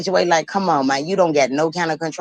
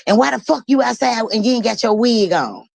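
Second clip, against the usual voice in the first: higher, imitating an exasperated dad; mock outraged father; 6 semitones higher than usual. Father scolding his daughter for going out without her wig, mock outrage. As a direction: act out the dad's disbelieving scold.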